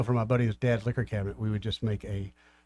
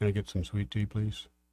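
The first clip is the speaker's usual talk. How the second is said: put-on macho, manly man voice. Showing the other speaker how to ask for sweet tea: man voice. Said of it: "Use your man voice".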